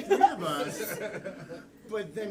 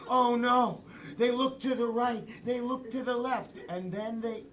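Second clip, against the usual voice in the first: lightly hammed suspense storytelling; horror narrator. Improviser narrating Sarah's disappearance, horror-film style. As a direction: build mild dread, pausing between phrases. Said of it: "we've got horror".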